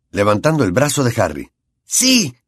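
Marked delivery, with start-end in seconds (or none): 1.8-2.3 a triumphant shout of joy; shouting yes. A narrator's reading. Ron cheering with Harry.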